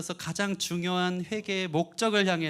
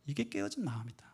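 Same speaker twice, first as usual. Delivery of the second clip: softer repeat; 6 dB quieter than usual. Shown as a demonstration.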